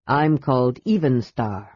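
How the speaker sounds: low, stern dragon voice. A narrator's reading. Golden dragon warns the kender, low and stern. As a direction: speak low and grave as an ancient dragon.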